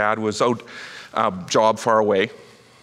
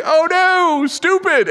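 high, louder "Oh no, stupid" wincing at a fail video; mock groan of dread; 6 dB louder, much slower than usual. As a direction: cringe out loud, pitched way up. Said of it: "you think".

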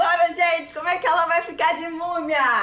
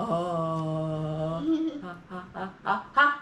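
zombie; 7 semitones lower, 5 dB quieter, slower than usual. Pretend. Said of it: "Travessura imitar um zumbi".

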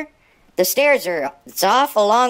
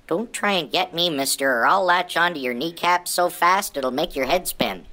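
low tough-guy warning from a pug; mock threat; 5 semitones lower than usual. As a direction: play at menacing, pitched down. Pug threatens whoever might grab him.

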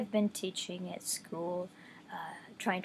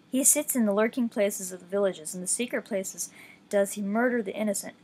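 scripture reading. Acted. Reading Psalm ten aloud to listeners, measured scripture voice. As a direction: read the psalm with steady reverence.

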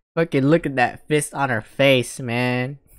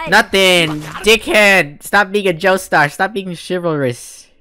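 a touch louder, mocking tough voice; mock tough guy; 5 semitones higher, 5 dB louder than usual. Streamer voicing the kidnapper scolding a hero, mock tough. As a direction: bark it like the thug would. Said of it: "Said, like".

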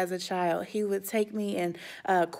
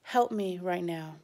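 soft prayer; 2 semitones lower, 5 dB quieter than usual. Shown as a demonstration. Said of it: "to just say a prayer and to say".

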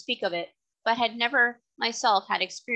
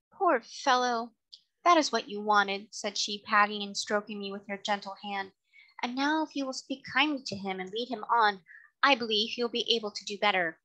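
tender lady. Acted. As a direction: comfort the tired horse. Lady soothes the horse.

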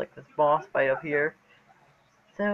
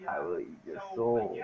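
deep demonic growl; possessed; 9 semitones lower, 3 dB quieter than usual. Pretend. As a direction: voice of a creepy possessed doll. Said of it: "Being creepy is my thing".

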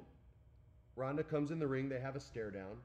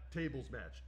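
normal talking voice

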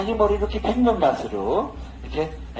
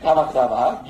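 drawn-out 사박사박 through a laugh, slow; 사박사박 said slowly with giggles; giggly sapak-sapak; 6 semitones lower, slower than usual. Shown as a demonstration. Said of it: "이 여자 신났다".

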